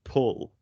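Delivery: English "pull", short lax vowel; attempted English vowel. Shown as a demonstration. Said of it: "very bad at pronouncing this".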